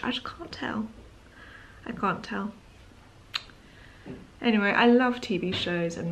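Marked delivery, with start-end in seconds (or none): 0.0-0.9 soft breathy whisper. Real, not acted. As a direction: drop to a secret whisper. Whispered then repeated aloud.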